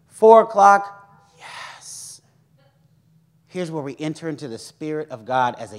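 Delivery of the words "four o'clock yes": slow, loud "four o'clock", then a breathy "yes"; excited. Retold or imitated. Preacher anticipating the four o'clock session, excited.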